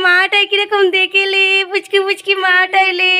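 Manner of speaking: high, drawn-out cooing. Real, not acted. Cooing to a baby.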